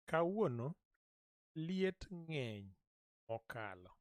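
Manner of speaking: each word set apart, liet ng'eny slow and stressed; slow repeat-after-me. Shown as a demonstration. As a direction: break it into pieces and drag out liet ng'eny for the learner. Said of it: "repeating these words so you can repeat".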